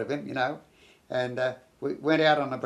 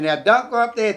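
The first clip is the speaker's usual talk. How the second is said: urgent warning; 7 semitones higher, 8 dB louder than usual. Retold or imitated. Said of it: "I said".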